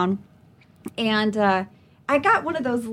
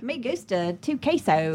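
George W. Bush Spanish. Retold or imitated. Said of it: "George W. Bush doing Spanish".

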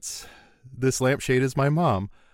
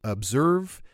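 QVC host. Pretend. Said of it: "we gotta Q V C this shit".

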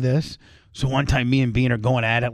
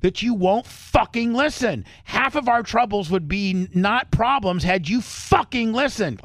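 higher, slow, mock furious rant; imitated angry yelling; 6 semitones higher than usual. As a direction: play the furious manager, a bit hammed. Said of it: "He's like".

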